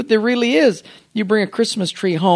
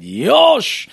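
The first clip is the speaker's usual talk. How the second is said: sudden battle cry; 7 semitones higher than usual. Retold or imitated. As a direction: shout it like a bonsai master springing into action. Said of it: "he said".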